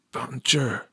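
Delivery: soft bonjour. A narrator's reading. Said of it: "Victor whispered".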